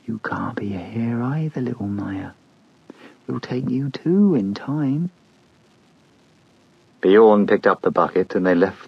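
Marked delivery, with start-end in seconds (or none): 0.1-5.1 soft menacing whisper; whispered threat. Acted. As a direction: breathe a threat into his ear. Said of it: "whispered in his ear".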